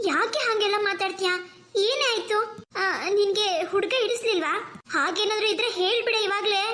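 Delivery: a hint of a playful sister prodding; teasing younger sister. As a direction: needle her sister gently. Kavya coaxes her sister.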